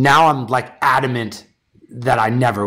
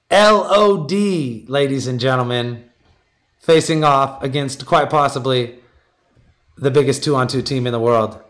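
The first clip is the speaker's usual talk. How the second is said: announcer reveal. Acted. Announcer-style matchup reveal.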